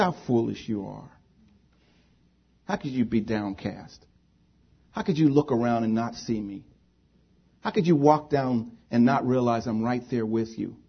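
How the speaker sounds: soft, understated rebuke; gentle correction. Retold or imitated. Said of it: "but to correct me".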